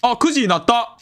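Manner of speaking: high, bright cry of relief; delighted. Real, not acted. Player reaching nine o'clock, high happy cry. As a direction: shout out the win.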